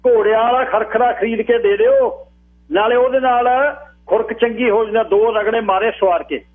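high, sustained declaiming voice; mock him in a high public call; high-pitched ridicule for a crowd; mocking crier.

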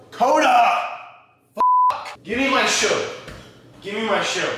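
high yelp at the dog; yell, then demand the shoe back; startled yell. Real, not acted. Yelling at his dog who stole his shoe, high and sharp.

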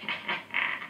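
soft, breath-only wicked chuckle; low-volume villain's snicker; witch's chuckle. Acted. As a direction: chuckle quietly as a gloating witch. Witch gloats about dinner.

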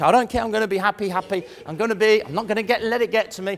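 fast, stubborn self-talk, forcing cheer; mock forced positivity. Speaker mimicking someone forcing happiness after bad news, fast. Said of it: "it's bad news".

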